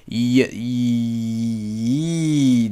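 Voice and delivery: y, y as a bare consonant sound, no vowel after; consonant sound alone. Shown as a demonstration. Teacher isolating the yod sound for learners, bare and clipped. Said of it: "So we now say the consonant".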